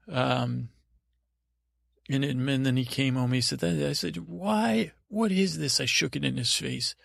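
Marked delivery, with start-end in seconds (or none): 4.3-5.8 high-pitched, theatrical outrage; indignant demand. Acted. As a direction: demand answers like an affronted prince. Confronts man, shaking kelp at him.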